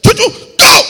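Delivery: high, loud sharp order; firm command. Retold or imitated. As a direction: send the dog off. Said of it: "looked at Chuchu and said".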